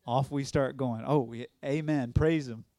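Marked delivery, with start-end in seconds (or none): 2.1-2.7 joyful praise. Real, not acted.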